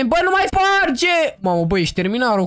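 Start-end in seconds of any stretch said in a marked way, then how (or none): 0.0-1.2 slow, higher, drawn-out scolding; stern command. Shown as a demonstration. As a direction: spell it out slowly like a strict order. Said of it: "Darusele, și spune".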